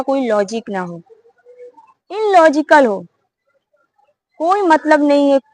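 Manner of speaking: lightly voiced bird explaining a lesson; wise bird lecturing.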